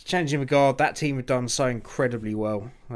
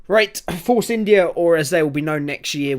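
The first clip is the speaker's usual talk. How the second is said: topic announcement; 6 semitones higher, 8 dB louder than usual. Real, not acted.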